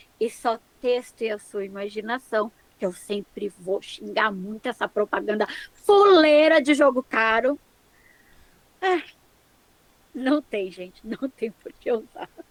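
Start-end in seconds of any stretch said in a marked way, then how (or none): 8.8-12.3 quieter, nervous laughter while talking. Finishing a point about the game to another speaker: nervous laughter while talking. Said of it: "eu tô rindo de nervoso".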